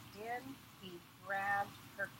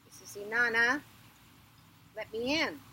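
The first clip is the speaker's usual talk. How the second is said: loud insistent announcement; demanding; 3 semitones higher, 7 dB louder than usual. Acted. Inanna demands entry at the next gate, loud. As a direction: announce yourself forcefully.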